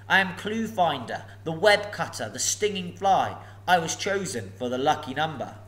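a hint of nervous courtesy; polite hobbit. Bilbo riddles.

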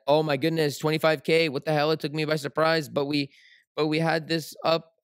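mock a panicking trader; panicked trader. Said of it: "No one is allowed to say".

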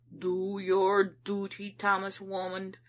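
stern, urgent self-reproach. A narrator's reading. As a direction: order yourself sternly to act. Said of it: "I said sternly".

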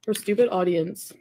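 stupid leaned on, slowed down; stress on stupid. Shown as a demonstration. Mocking viewers on stream, leaning hard on stupid. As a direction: drag out the word stupid. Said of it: "emphasis on the word stupid".

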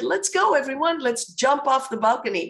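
high-pitched rallying call, easing toward the end; rally the group with lifted intonation; enthusiastic. Shown as a demonstration. Presenter translating her Greek invitation for the audience, enthusiastic. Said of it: "I said it in an enthusiastic way".

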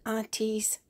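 put-on high, slow little baby voice; baby doll voice. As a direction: speak for the baby, sweet and high. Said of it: "She wants to say".

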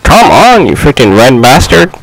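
frustrated yell. Real, not acted. Yelling at opponent in game.

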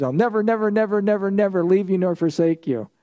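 each never lifted high and pressed; emphatic repeated never. Shown as a demonstration. Preacher to his class, stressing each "never" in the Greek emphatic. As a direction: hammer home every "never" as a promise. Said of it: "It's an emphatic in the Greek".

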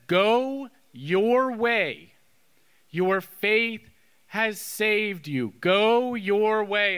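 very slow, weighty delivery; solemn pronouncement. Retold or imitated. Jesus to the healed blind man, solemn and slow. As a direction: pronounce it deliberately, word by word.

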